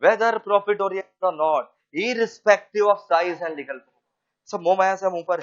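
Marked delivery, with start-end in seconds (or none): 0.0-4.0 every word drawn out; very slow dictation. Shown as a demonstration. Teacher dictating to students, very slow. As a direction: dictate it for the class to write. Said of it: "बोलो".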